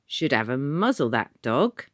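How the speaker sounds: loud Cockney ticket man; exclaimed. A narrator's reading. Ticket man mocking the country boy's dog, loud. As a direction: call it out, gruff and loud. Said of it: "he exclaimed".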